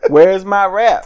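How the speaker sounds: retold yell, only partly let out; mock scream. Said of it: "she went after Riccaboni screaming".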